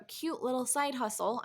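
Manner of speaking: mock-dismissive air quotes. Wife echoing husband's dismissive view in sarcastic air quotes. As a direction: say it as if the husband calls it cute. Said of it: "I'm saying that in air quotes".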